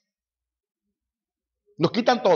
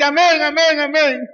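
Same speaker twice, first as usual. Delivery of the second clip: high, loud, tearful cry of praise; mock weeping worshipper; 9 semitones higher, 4 dB louder than usual. Congregation answering the preacher, mock-tearful high cry. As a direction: wail it like a sobbing congregant. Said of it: "La gente".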